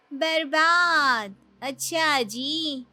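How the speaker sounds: slow, drawn-out mocking repeat; sarcastic echo. Younger sister mocking her older sister's refusal, sarcastic. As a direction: stretch the word to mock her. Sister mocks the word wasted.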